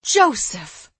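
sharp, loud scold. Acted. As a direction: snap the name at him. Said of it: "Eliza scolded her brother".

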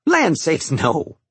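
high amused exclamation with a touch of a chuckle; mild chuckle. Acted. Cook amused at the fishing question, mild chuckle. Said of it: "she chuckled".

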